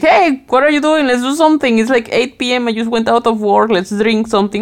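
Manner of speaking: a hint of a breezy pal calling you out; casual invite from a friend. Friend phoning to suggest a drink after work, lightly voiced and eager. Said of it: "someone else. Like".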